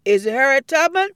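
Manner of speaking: eager guess. Acted.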